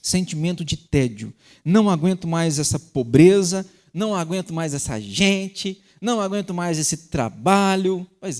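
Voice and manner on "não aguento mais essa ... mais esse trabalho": fed-up rant. Retold or imitated. Voicing a fed-up, bored person.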